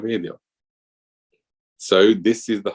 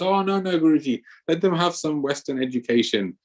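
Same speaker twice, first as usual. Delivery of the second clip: high mock refusal, half whining; protesting disciple; 7 semitones higher than usual. Disciple dodging Vrindavan for the children's schooling, high mock protest. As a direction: play the dodging disciple lightly.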